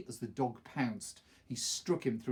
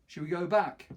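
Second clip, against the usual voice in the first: uneasy question; 6 semitones higher, 6 dB louder than usual. Acted. Freak wants to leave.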